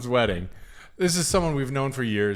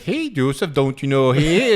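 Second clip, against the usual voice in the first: put-on Wisconsin accent; 5 dB louder than usual. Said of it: "that's how she fucking talked".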